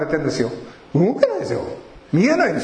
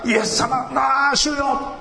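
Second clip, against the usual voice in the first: desperate cry to the Lord; 11 semitones higher, slower than usual. Retold or imitated. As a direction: cry out to Jesus as if shaking off the crowd. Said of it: "叫ばないといけない".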